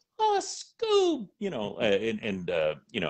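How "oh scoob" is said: bad, very high cartoon voice, end held long. Showing how to voice Shaggy: Shaggy voice. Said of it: "I could do a bad Shaggy".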